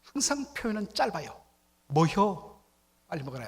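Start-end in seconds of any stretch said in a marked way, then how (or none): 1.9-3.5 Chungcheong dialect. Shown as a demonstration. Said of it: "충청도 사람들은 말은 느린데 항상 표현은 짧아요".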